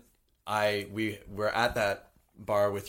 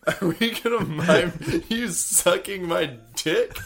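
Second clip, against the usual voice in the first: laughing; 6 semitones higher, slower than usual. Retold or imitated. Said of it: "I was like".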